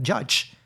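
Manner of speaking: "Judge" said as "chutch"; crisp CH for each J in "Judge"; accented pronunciation. Retold or imitated. Student repeating the error, CH sounds. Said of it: "I couldn't hear the ch".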